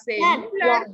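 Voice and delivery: "celular" wrongly stressed as CE-lu-lar; stress on first syllable. Shown as a demonstration. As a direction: punch ce at the start of "celular". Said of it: "¿Será celular o celular".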